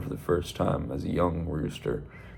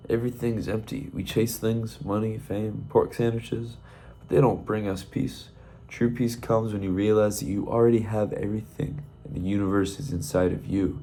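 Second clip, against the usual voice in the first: calm monk; 2 semitones higher than usual. Acted. Monk explains emptiness to Roy.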